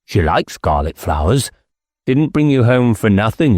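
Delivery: lightly voiced squire, sly and dismissive. Squire sending the inspector away with flowers, sly. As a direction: hand him off with a knowing tone.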